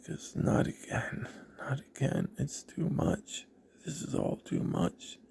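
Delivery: reliving being overwhelmed, softly and high; retold shock. Patient taking in news of another surgery, hushed in retold shock. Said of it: "I'm almost just going into shock".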